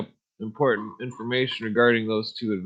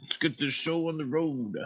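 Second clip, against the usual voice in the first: country voice; 5 semitones higher, 6 dB quieter than usual. Pretend.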